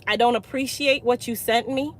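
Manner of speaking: calm, kind, measured reply; to an upset client, kind and steady. Retold or imitated. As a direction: let it land gently, kind but firm. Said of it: "I simply said with a kind voice".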